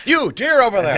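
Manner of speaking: loud, high laughing pirate hail; pirate call. Pretend.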